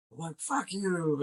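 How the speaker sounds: slow, high, sneering fuck you; mock pissed. Tricked traveler cursing his friends, slow and sneering. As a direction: spit it at the pranksters. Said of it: "Richard is pissed".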